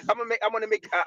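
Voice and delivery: quick, stumbling restarts; tongue-tied, hurried false starts; real stuttering. Real, not acted. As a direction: trip over the words and start the phrase over. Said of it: "I'm, I'm stuttering".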